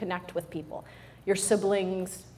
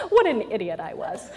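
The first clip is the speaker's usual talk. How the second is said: laughing. Real, not acted. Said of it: "I'm like".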